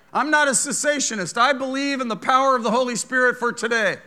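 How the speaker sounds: loud, high revival preaching; full-force preaching. Acted. Preacher exhorting the church, loud and high.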